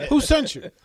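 high mock New York accent through amusement. Repeating the stranger's question to the hosts, New York accent. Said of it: "you heard the voice".

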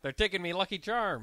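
lightly attempted Irish leprechaun accent; a hint of cereal-ad Irish; Irish impression. Co-host answering request, light Irish impression. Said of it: "can you give us an Irish impression".

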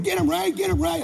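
high-pitched mock cheering yell; Big Ray yelling. Father urges his son on in fight, yelling. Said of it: "I'm hearing him yell".

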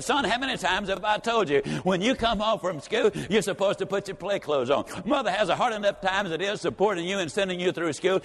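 lightly acted exasperated mother; furious mother. Mother scolding her twelve-year-old son, mock fury. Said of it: "Got home, she is furious".

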